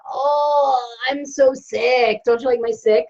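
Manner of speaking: mock-moaning sick patient, slow and drawn out on so sick; whiny sick patient. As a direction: ham up a self-pitying patient, lightly. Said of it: "That's how I go to the doctor".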